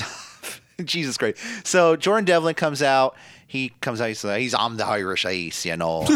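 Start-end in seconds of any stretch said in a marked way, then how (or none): 4.6-6.1 lightly put-on Irish accent; a hint of imitated Irish brogue; Finn Balor. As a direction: try an Irish lilt, loosely imitating a wrestler. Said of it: "I sound just like Finn Balor".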